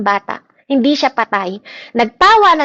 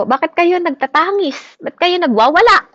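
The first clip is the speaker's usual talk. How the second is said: rebuking; 6 semitones higher, 3 dB louder than usual. Retold or imitated. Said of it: "sabi ni Lord sa kanila".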